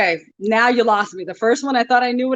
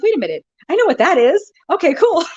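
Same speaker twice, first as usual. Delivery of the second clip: excited realisation; 8 semitones higher than usual. Retold or imitated. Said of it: "I'm like".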